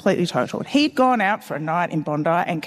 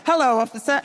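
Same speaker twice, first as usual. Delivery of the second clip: mock coy greeting; 6 semitones higher than usual.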